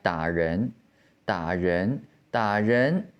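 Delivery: low "da" with no rise, then rising "ren"; half third tone. Shown as a demonstration. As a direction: repeat "da ren" as a teacher, "da" held down and "ren" climbing. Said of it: "say the first half of the third tone".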